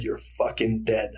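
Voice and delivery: slow, controlled mock threat; retold anger. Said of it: "So I get so mad".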